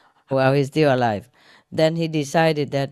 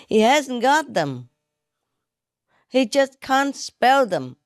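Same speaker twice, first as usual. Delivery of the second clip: laughing; 7 semitones higher than usual. Acted. Punchline delivered laughing high.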